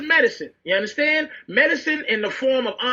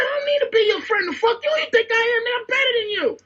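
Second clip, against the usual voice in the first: much higher, fast, laughing through it; laughing mock put-down; 12 semitones higher, faster than usual. Telling the girl off to friends while laughing. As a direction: crack up while quoting yourself.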